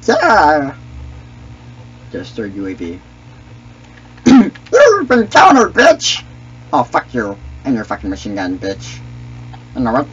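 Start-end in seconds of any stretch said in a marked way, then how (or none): 4.3-6.2 higher, louder mocking Misa; slow gloating taunt in character. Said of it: "I could do this voice all day".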